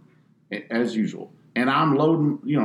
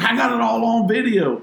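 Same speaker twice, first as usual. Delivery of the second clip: 1 smug homeowner; 11 semitones higher, 4 dB louder than usual. Retold or imitated. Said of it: "he's like".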